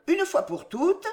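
indulgent firmness. A narrator's reading. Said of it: "avec un sourire indulgent". (fermeté indulgente)

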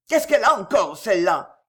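put-on loud, harsh shout at the girl; angry shout. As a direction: bark it out like an angry foreman. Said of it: "cria-t-il".

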